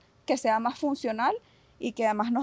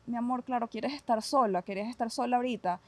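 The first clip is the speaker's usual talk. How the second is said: soft, gentle comforting voice; calm a crying child, softly; soothing to a child; 4 dB quieter than usual. Shown as a demonstration. Psychologist showing parents how to soothe a crying child, soft and gentle. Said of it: "Lo único que tienes que hacer es acompañarlo".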